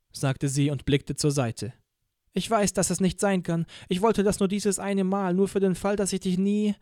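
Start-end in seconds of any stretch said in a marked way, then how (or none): 2.3-6.7 lightly voiced young woman, higher and fragile; a hint of a girl holding back tears; Van trailing off before she says too much; Van, hurt. Van's held voice, choking up.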